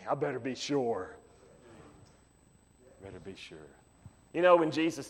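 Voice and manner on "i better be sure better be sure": soft, breathy inner resolve; near whisper. Acted. Preacher voicing the believer's private resolve, softly. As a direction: say it to yourself under your breath.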